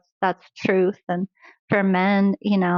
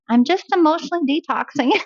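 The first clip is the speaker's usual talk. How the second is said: playful quote; 8 semitones higher, faster than usual. Retold or imitated. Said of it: "I was saying".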